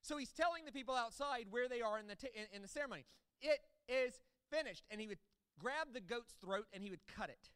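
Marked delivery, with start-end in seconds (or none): 3.4-4.8 loud proclamation. Retold or imitated. Priest calls to the people outside in a loud voice. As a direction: ring it out loud and high. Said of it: "proclaim in a loud voice".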